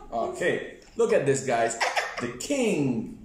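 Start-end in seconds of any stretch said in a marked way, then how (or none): 2.2-3.2 put-on kids party magician. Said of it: "I'm the magician".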